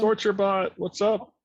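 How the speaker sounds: bright, high, loud hello; excited greeting. Real, not acted. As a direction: call out a cheerful welcome. Greets a new chat viewer.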